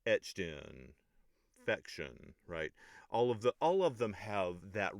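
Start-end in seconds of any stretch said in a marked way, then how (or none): 0.1-2.3 "ETCHED in, FECtion", first syllable hit; trochaic stress. Shown as a demonstration. Teacher scanning the rhymes, ETCHED in, FECtion stressed first. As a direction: punch "Etched" and "fec", let the rest fall light. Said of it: "accented syllable is on the first syllable".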